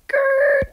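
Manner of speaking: high, loud mock growl; frustrated growl. Real, not acted. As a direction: let out a cartoon growl of annoyance. Frustrated at slow game.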